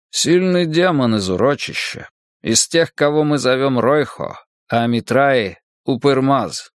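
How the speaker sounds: тревожно, веско, чуть выше; предупреждает об опасности; голос монаха. Acted. (тревожный голос монаха)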